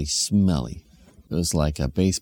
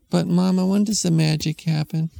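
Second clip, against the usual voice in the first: put-on high eager little kid; impatient small child asking; 10 semitones higher than usual. Kid pestering mom at the DMV, high childish voice.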